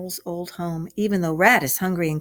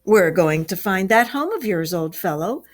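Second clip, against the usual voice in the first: pleasant; 3 dB louder than usual. Acted. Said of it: "replied the Rat pleasantly".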